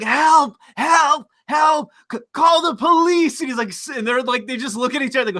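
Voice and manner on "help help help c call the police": high mock scream for help; mock cry for help. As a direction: squeal like the hippie being dragged.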